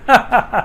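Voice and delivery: a quick laugh at his own slip; short embarrassed laugh. Real, not acted. Newsreader laughing briefly after tripping over numbers, embarrassed chuckle. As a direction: laugh off the fumbled figures.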